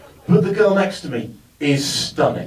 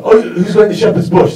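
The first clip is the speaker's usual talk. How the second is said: put-on drunk man calling; 4 semitones higher, 7 dB louder than usual. Drunk man voiced again.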